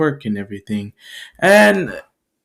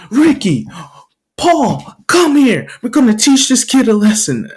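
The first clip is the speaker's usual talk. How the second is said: high, loud gang-boss summons; calling the crew; 8 semitones higher, 4 dB louder than usual. Acted. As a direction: call them over forcefully.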